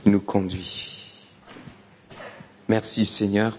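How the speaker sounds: hushed pastoral prayer. Acted. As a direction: pray over the congregation. Leads a prayer.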